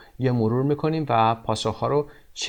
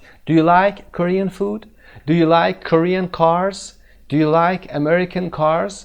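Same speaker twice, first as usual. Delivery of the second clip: higher, slow questions rising on like; example questions; 5 semitones higher, 4 dB louder, much slower than usual. Shown as a demonstration. Teacher giving learners extra examples, higher and slow. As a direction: run examples slowly and brightly. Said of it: "هر چی که بعد از این بیاد".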